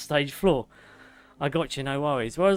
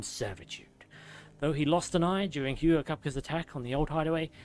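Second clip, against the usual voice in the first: measured nature-documentary narrator, softening at phrase ends; David Attenborough; 4 dB quieter than usual. Acted. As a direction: read it like a soothing bedtime story. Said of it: "You missed my amazing David Attenborough".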